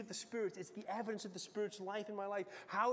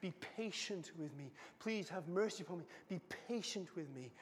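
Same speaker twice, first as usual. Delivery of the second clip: mild begging; 2 semitones lower, 4 dB quieter than usual. Acted. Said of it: "The second servant begs the first servant".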